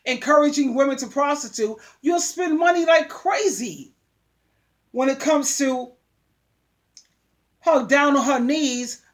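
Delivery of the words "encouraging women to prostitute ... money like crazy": shouting it out at the johns; angry shout. Real, not acted. Preacher yelling at johns who pay for sex.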